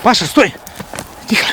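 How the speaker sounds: sharp loud warning; urgent shout. Real, not acted. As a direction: call out to stop him. Car approaching, alarm.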